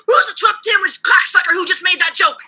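drill sergeant yell. Retold or imitated. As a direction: yell it like the Full Metal Jacket sergeant. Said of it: "and then he'll yell even more".

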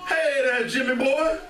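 lightly voiced taxi driver, pitched high; teasing mock cabbie hail. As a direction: call out high like a joking cabbie. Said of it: "And the taxi driver says".

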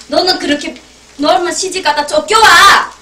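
mock scold building to a yell; scolding mother. Mother scolding her daughter for sneezing, building mock yell. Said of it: "이러거든".

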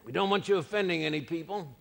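imitating nervous church folk, softly; a hint of a worried deacon; mock hushed warning. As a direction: hush him like a timid elder. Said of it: "They'd say".

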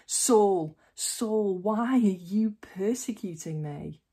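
loud call of the name, then a breathy whisper; a heavenly voice calling out, then hushed; voice of the Lord from heaven. A narrator's reading. Heavenly voice calling Saul from the sky, loud then hushed. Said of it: "I heard a voice say to me".

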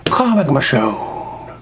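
drawn-out showy figure name; playful announcing. Acted. Reviewer unveiling a comic figure, playful announcing. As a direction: stretch the name out slowly with a falling finish.

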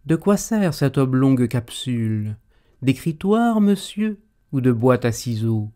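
quizzical, pitch jumping up; curious. Acted.

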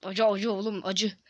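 talking with numb sour mouth; words through a numb, puckered mouth. Real, not acted. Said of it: "ağzım uyuştu".

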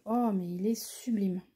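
breathless whispered wonder; awed whisper. Real, not acted. Marvelling to viewers at the almond green. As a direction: whisper it in awe of the color. Admiring green diamond color.

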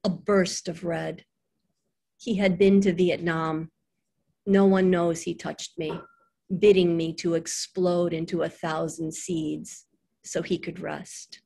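measured, lightly formal poem recital; poem reading. Acted. Poet reading to an audience, measured poem reading. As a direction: read the lines with spaced pauses.

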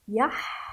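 يح with a strong pharyngeal ح; ha not he. Shown as a demonstration. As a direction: hold the rasped ح at the end of يح. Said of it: "هذا حاء وليس هاء". (نطق يح بحاء واضحة لا هاء)

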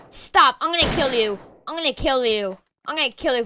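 loud game threat, not in earnest; loud mock threat. Gamer loudly threatening a player in the match. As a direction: threaten them loudly in play.

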